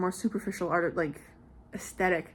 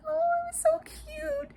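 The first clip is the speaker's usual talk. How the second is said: gushing squeal. Real, not acted. Gushing over the scene.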